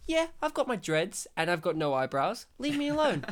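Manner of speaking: mildly acted nonchalant brush-off. Host imitating Whoopi Goldberg's attitude to friends, nonchalant. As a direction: play it casually unbothered, lifting at the end. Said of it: "She is just nonchalant".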